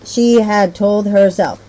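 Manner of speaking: slow, drawn-out start of a story line; slowed storybook phrasing; expressive reading. Shown as a demonstration. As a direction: show them how to read with feeling. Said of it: "they need to remember to be reading with expression".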